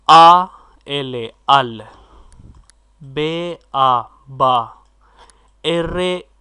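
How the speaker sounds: letters called out slowly and loudly, then joined into syllables; slow spelled blend. Shown as a demonstration. Teacher sounding out a word for the class, slow and loud. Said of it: "इनको भी हम इसी तरह पढ़ेंगे".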